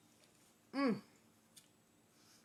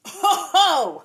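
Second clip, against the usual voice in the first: surprised oh; 7 semitones higher, 12 dB louder than usual. Real, not acted. Slice reveal.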